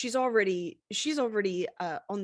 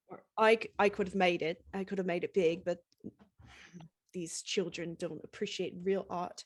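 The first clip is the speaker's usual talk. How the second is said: grumpy singer; 3 dB quieter than usual. Acted.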